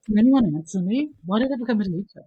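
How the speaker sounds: hammed-up teacher lament; mock despair. Teacher lying on a desk, mock despairing to the class. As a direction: wail at the class, half joking. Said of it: "And I go".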